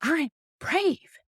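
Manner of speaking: high-pitched mock yell, drawn out; big, high, proud kid's yell; retold yell. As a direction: imitate a child yelling it with conviction. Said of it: "eventually I got him to yell".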